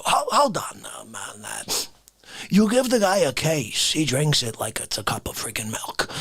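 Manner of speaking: a deep-voiced man scolding the host; deep indignant caller.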